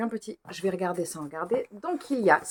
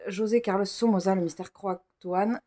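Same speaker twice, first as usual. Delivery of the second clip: French pronunciation. Shown as a demonstration. Reader giving up on Spanish, "José Carlos Somoza" in French. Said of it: "je vais parler à la française".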